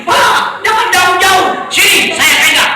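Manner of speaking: high, urgent imitation of his wife; mock the wife's nervous call; wife's worried plea. Wife on camel begs husband to stay close, mock-high. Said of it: "istri saya bilang begini".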